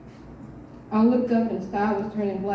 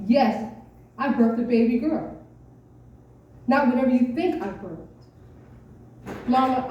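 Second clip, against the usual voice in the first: exasperated daughter; 3 semitones higher than usual. Acted. Mama arguing with Grandmama.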